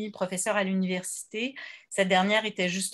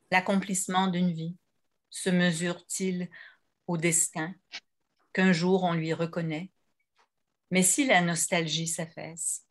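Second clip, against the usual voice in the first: measured poem recitation with pauses between lines; poetry reading. Real, not acted. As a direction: read each verse apart, letting it settle. Quotes a poem aloud.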